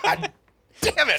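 high, loud laughing yell; exasperated curse. Retold or imitated. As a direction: blurt it out half laughing. Retelling his frustration while laughing.

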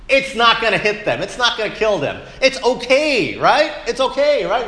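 hammed-up bragging gunman; reckless gun owner. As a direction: play the careless shooter sure he can't miss. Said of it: "would you say this?".

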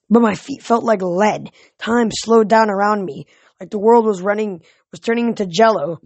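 animated audiobook reading; story narration. A narrator's reading. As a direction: tell the adventure with steady energy.

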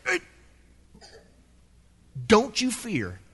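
a relaxed, offhand Jesus leaning on a wave; casual Jesus. Retold or imitated. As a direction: toss it off easily, foot up on the wave. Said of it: "It's like he's leaning up on a wave".

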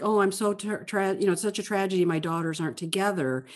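softly mocking the mom's self-pity; mock mom lament. Podcast host mocks the book's mother figure, mock lament. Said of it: "we're reading mom saying".

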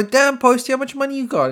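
wide-eyed at the cash; mock amazed. Fan asks a singer about his money, high excited. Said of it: "And I go".

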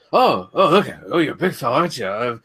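put-on mumbled Irish Traveller gypsy accent; Brad Pitt's gypsy accent. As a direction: slip into a mock Irish-gypsy brogue. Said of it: "I don't think I'm cool doing that accent".

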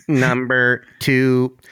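slow, drawn-out countdown call; countdown announcer. Pretend. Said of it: "Why was it a robot voice?".

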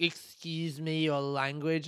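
lightly mimicked prim objection, drawn out; mock offended complainer; slow, scandalised scolding in imitation; offended old woman.

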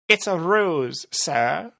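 lieutenant objects sourly. Acted. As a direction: sulk it out to the boss. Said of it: "Rumble said sourly".

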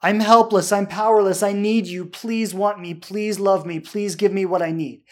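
a hint of a needy, begging lover; desperate pleading. Coach acting out a clingy partner, mild pleading. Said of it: "That's desperation".

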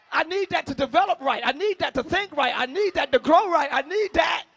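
loud, rising preacher's call and response; love me first hollered at the peak; preaching at full force. Acted. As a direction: preach it, building to a cry. Preaching repetition.

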